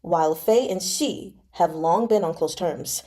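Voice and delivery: even, measured audiobook reading; story narration. A narrator's reading. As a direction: read the novel aloud to listeners. Reads novel aloud between comments.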